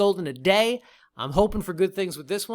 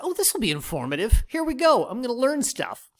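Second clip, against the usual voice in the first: mock excitement; 7 semitones higher than usual. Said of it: "I thought".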